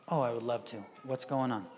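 low, soft, willing reply; gentle dad. Retold or imitated. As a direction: imitate a parent calmly inviting the child to explain. Dad answers calmed daughter gently.

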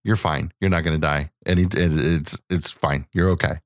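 understated parental comfort; mild reassurance. Retold or imitated. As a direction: lightly soothe a worried kid. Dad reassures frightened son.

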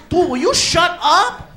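loud, slow, high shout; yelling back. Retold or imitated. Driver shouting back at Felipe, loud and slow. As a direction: yell him down, slowly.

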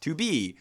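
"to be" with "be" stressed; iambic stress. Shown as a demonstration. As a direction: lean on the second word of "to be". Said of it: "unstressed, stress".

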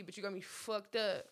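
usual speaking voice

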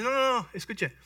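lightly voiced confident shepherd boy; boastful boy David. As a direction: sell yourself to the king. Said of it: "Y dice".

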